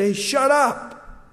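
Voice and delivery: acted telling-off; stern warning. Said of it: "he warned him and said".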